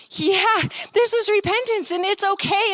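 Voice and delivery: high, emotional reassurance; tearful reassurance. Retold or imitated. Speaker comforts the repenting woman, tearful reassurance. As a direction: reassure her, voice lifted high.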